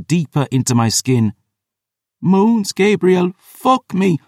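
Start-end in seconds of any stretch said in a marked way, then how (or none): 2.2-4.2 much higher, breathless begging; passionate plea. A narrator's reading. Lover cries out to Gabriel, high and pleading. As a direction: she begs him, lost in desire.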